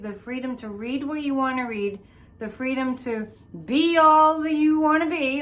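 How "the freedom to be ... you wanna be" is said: ordinary talk, nothing marked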